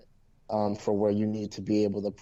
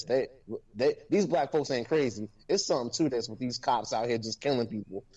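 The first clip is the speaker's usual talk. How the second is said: very upset; 3 semitones higher than usual. Real, not acted. Podcast host on the case that started it all, very upset. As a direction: plead it out, genuinely upset. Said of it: "I'm very upset".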